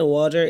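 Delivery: "ওয়াটার" as WAW-tar, native style; native-style pronunciation. Shown as a demonstration. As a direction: say "ওয়াটার" the way native speakers do, with a rounded "aw" vowel. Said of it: "এটা অনেক যে native এরকম উচ্চারণ করে". ("ওয়াটার" নেটিভদের মতো উচ্চারণে)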